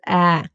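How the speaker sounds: "A" said as an open "eh"; German Ä. Shown as a demonstration. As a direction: say "A" as A-umlaut, a long open e. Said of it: "It gets pronounced as A".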